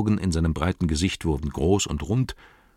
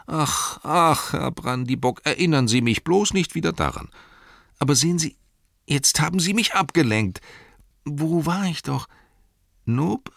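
high-pitched, scatterbrained fussing; flustered innkeeper; 10 semitones higher than usual. Acted. Innkeeper remembers the returned pony for his guests, flustered. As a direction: lose the thread and find it, voice raised.

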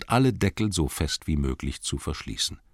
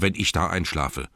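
grumbling cellarman. Acted. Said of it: "brummte er".

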